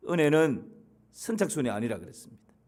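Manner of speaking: usual speaking voice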